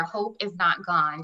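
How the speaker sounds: slow and deliberate, each word weighed; hope is not gone, said slowly and firmly; slow affirmation. Shown as a demonstration. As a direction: say it like a sticky-note affirmation. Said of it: "that phrase right there".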